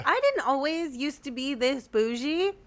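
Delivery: talking around chewing gum. Real, not acted. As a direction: speak with gum in your mouth. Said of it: "I have gum in my mouth".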